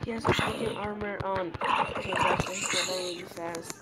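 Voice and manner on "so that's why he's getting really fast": quick whispered explanation; hushed whisper while hiding. Real, not acted. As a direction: whisper it under your breath. Hiding from armored mob.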